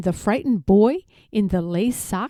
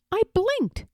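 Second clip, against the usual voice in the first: whispered; 10 semitones higher than usual. A narrator's reading. Waking in the park.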